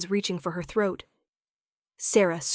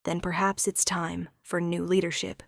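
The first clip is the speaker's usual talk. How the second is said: sad. Acted. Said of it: "Thorn says sadly".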